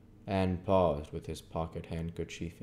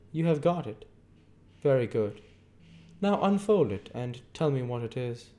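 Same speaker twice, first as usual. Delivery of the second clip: stern lawyer Jaggers; 8 semitones higher, 5 dB louder than usual. A narrator's reading. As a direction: hold the witness with a hard stare. Jaggers lecturing Pip.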